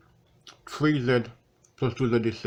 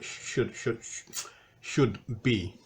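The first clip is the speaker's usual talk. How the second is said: without teeth in; talking with no teeth in; loose dentures; 3 dB quieter, much slower than usual. Real, not acted. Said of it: "haven't put my teeth in yet".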